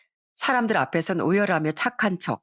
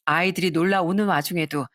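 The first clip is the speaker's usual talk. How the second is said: plain reading voice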